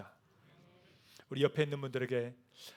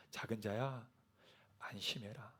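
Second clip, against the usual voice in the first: tender comfort; 4 semitones lower, 11 dB quieter than usual. Acted. Jesus voiced tenderly again.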